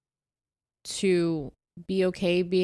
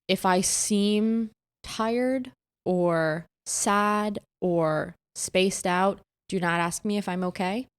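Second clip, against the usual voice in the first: slow, deliberate delivery, spaced out; measured group text; slower than usual. Retold or imitated. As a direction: lay down the rule one piece at a time. Reciting own firm group text.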